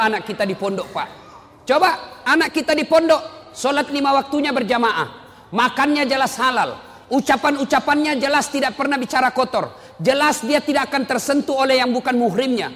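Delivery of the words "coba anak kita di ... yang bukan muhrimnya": louder, higher sermon delivery; fervent preaching. Acted. Preacher urges parents to send children to pesantren, fervent. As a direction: drive the point home to the congregation.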